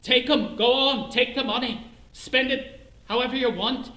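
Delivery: throwing money at strangers, yelling; half-shouted fantasy of tossing cash around; imagined shouting. Retold or imitated. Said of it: "I wanted to scream".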